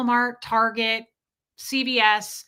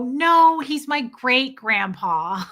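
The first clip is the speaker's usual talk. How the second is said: loud no, then slow, teasing drawl; deadpan joke to the stranger; cheeky reply; 3 semitones higher, 6 dB louder, much slower than usual. Retold or imitated. Wife teasing a lady in a restaurant, cheeky. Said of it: "And I'd go".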